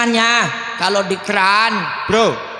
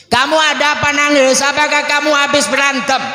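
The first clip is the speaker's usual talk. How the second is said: higher, insistent string of questions; acted concerned grandpa; questioning grandfather; 5 semitones higher than usual. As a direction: press a crying child for the reason. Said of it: "Ini kakek memperhatikan".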